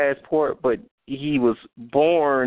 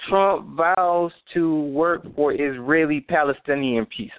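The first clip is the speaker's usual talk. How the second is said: reading in disbelief. Real, not acted. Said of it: "Let me read that again".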